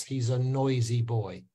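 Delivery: put-on clean "oi" in "noisy boy"; correct English pronunciation. Shown as a demonstration. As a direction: model "noisy boy" without a w. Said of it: "to say it the English way".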